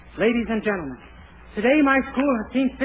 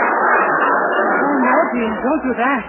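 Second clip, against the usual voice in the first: louder, slow, alarmed begging; alarmed plea; 3 semitones higher, 5 dB louder, much slower than usual. Acted. Dennis begs the dean to spare the cornerstone, alarmed. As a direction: stop the Dean before he does it. Dennis pleads against incinerator plan.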